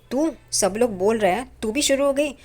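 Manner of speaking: mother-in-law's indignant outburst, retold; retold angry outburst. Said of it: "Renuka भड़क जाती है".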